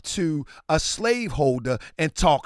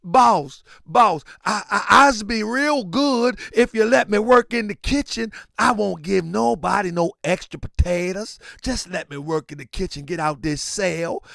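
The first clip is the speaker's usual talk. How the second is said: mock pleading prisoner. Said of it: "And then they talking about".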